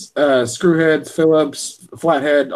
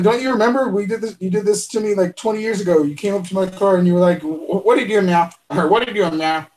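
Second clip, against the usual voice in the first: higher, lively retelling of the Super Troopers cop; movie cop quote; 5 semitones higher, faster than usual. Retold or imitated. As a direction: quote the cop with amused energy. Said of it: "He's like".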